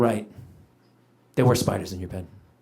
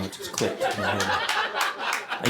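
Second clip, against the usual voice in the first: whispered aside; 10 semitones lower, 8 dB quieter, much slower than usual. Real, not acted. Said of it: "unvoiced far".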